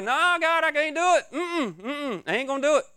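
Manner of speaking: high, loud, frantic pleading; panicked refusal. Retold or imitated. Preacher imagines refusing Jesus, mock panicked and high. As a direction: beg God to let you off, alarmed. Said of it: "I would like".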